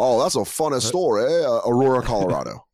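lightly held southern voice; mock southern accent. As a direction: drop the accent halfway, caught out. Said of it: "ride out that voice".

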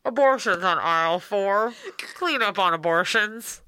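store announcer. Pretend.

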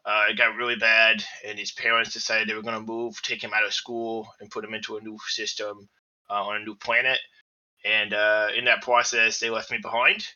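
gruff adult voice with a lisp; a tough little robot bear with a lisp; gruff lisping android bear. Acted. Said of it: "Why does he talk like this?".

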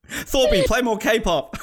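mock cheer. Host jokingly cheering Thorpe.

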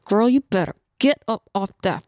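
warning squeezed through clenched teeth; tight-jawed mom warning; talking through teeth. Retold or imitated. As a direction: hold back the yell, talk through your teeth. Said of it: "I'm talking through my teeth".

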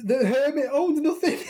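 giggling through the answer; laughing. Real, not acted. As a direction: laugh at your own mistake. Laughs at own wrong answer.

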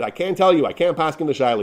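understated retold plea; retold begging. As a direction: plead to be let off, lightly acted. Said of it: "I begged him".

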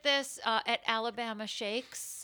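fake-agreeable, undercutting tone; mock accommodating actor; passive-aggressive actor. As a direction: concede while clearly resenting the note. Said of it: "the passive-aggressive actor thing".

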